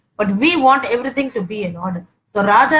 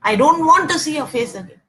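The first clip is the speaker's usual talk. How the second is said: higher-pitched mock scolding yell; mock screaming; 5 semitones higher than usual. Wife throwing husband out of the house, mock screaming. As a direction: imitate a wife screaming in a fight. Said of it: "she's screaming and saying".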